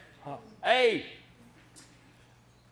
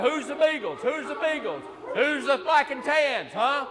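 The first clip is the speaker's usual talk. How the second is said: calling the dogs; 5 semitones higher than usual. Acted. Calling out for the hounds.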